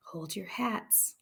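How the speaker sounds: slow, soft unvoiced warning; hushed dread between friends; whisper. A narrator's reading. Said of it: "Hortensia whispered".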